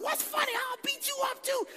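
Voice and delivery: very high-pitched yelled challenge; acted-out screeching anger; mad retold threat. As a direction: lash out like a furious kid. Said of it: "I was so mad".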